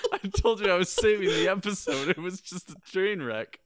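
loud, high-pitched defence; real outburst, voice jumping up; giddy protest. Real, not acted. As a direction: protest loudly over everyone's laughter. Defends story amid group laughter.

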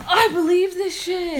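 loud laughing declaration; excited laughing. Real, not acted. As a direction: declare it with glee. Gleeful declaration.

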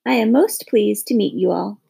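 lightly gravelly bird voice; a hint of rasp, formal and polite. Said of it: "he said with a gravelly voice".

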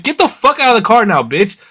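high-pitched re-enacted yell; retold furious order. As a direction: demand it as if just attacked. Retells yelling after being maced.

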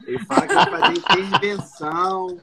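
said through a laugh; chuckling while telling it. Real, not acted. Joking about mechanics' jargon.

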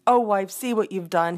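husband crying back at his wife; understated indignant cry; mild cry. Acted. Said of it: "he cried".

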